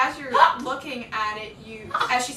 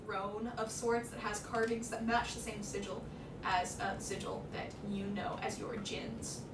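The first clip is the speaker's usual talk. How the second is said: measured, softer scene-setting; game master narration; 7 dB quieter than usual. Acted. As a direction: describe the scene quietly, unhurried.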